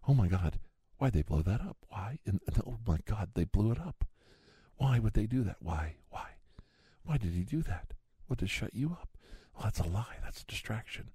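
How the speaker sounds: high mock whine, dropping to a hush at the end; mock outrage. Ranting conspiracy man mocks the critics, high whining outrage. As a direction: whine like the hand-wringing critics.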